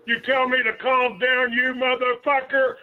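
angry. Real, not acted. Angry caller yelling at prank caller.

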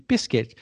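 "biscuit" said BISS-kit; everyday English "biscuit", BISS-kit; English pronunciation. Shown as a demonstration. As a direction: say "biscuit" with a hard k and a sounded final t. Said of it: "that's how you pronounce it".

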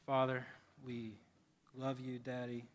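gentle prayer with long pauses; unhurried, subdued pastoral prayer. Real, not acted. Leads the congregation in prayer.

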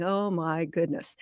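understated "uh-oh" aside; hushed dismay, re-enacted. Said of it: "And I'm going".

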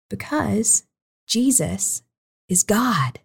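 hushed whisper of awe. Acted. Minister telling children who Jesus is, whispered. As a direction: breathe it out as a secret. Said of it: "whispered climax".

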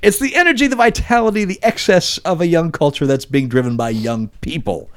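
high, grand, declaiming the quote; dramatic quote reading. Retold or imitated. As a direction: read it like a bold movie pitch.

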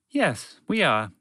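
lightly polite, high-starting answer; polite reply. A narrator's reading. Collective intelligence answering the moose, mildly polite. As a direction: answer courteously, a touch formal. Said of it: "replied politely".

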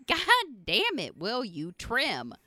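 high, slow, drawn-out scold; exasperated mock yell. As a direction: nag the son to trim, stretched out. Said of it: "I'm like".

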